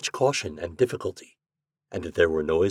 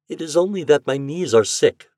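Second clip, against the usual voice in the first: higher, plaintive tearful woman; piteous; 6 semitones higher, 3 dB louder than usual. A narrator's reading. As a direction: plead weakly. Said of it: "she said piteously".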